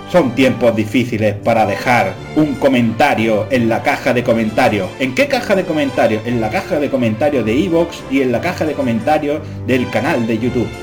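epic narrator. Pretend. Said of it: "ponedme música épica".

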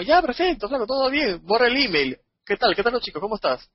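high, breezy fake-friendly voice; mock cheerful. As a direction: brush it off with bright pretend cheer.

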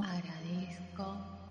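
voz lejana y muy tenue; eco de fondo. Acted. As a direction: repite la afirmación como un eco distante. Eco de la palabra anterior. (eco suave y lejano)

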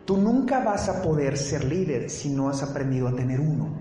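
slow it down so nobody misses it. Shown as a demonstration. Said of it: "Lo voy a decir más lento".

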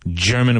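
"German" with a strong initial G. Shown as a demonstration. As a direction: hit the G at the start of "German" firmly. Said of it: "with a strong G".

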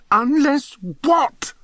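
slow, very high, drawn-out pleading; desperate plea. A narrator's reading. Bunce pleads with the narrator to tell him, high and slow. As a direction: stretch it out high, desperate to know. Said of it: "in his desperation to be told".

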